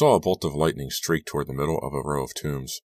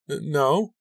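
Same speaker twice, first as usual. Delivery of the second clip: startled stammer; 11 semitones higher than usual. A narrator's reading. Startled girl answers her dad, higher stammer. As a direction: catch your breath on the no.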